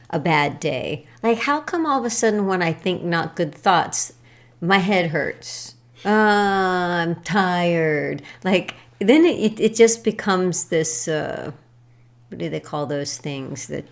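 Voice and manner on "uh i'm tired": very slow sighing complaint; mock weary grumble; mopey. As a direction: drag it out tiredly. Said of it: "imitating own bad-day self".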